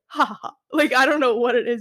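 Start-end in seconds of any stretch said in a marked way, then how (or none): 0.1-0.5 mock witch cackle, ha ha ha; wicked witch laugh. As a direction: imitate a witch's cackle, lightly. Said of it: "wicked witch laugh".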